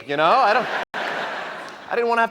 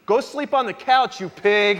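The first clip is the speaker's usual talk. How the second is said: put-on girlfriend; 4 semitones higher, 4 dB louder than usual. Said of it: "rocks me and says".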